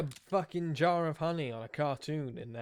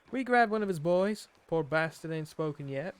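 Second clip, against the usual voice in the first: louder, lightly put-on outlaw accent; Arthur's put-on accent; 3 semitones higher, 5 dB louder than usual. Player reading Arthur's journal aloud, put-on accent. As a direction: read it out in a light cowboy accent. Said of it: "doing this accent".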